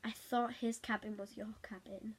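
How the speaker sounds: unvoiced, sheepish whisper. Real, not acted. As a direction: confess it in a hushed whisper. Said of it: "sheepish admission".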